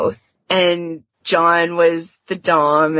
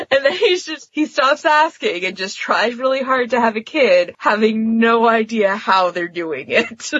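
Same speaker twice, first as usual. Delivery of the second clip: higher voice, laughter bubbling through the words; laughing while talking; 4 semitones higher than usual. Real, not acted. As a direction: tell it while still giggling. Retelling a funny scene, amused.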